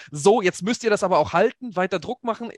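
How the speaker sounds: high-pitched re-enacted fan shouting; retold shouting. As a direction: shout urgent orders to the team, held back in volume. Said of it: "dann hab ich wirklich laut geschrien".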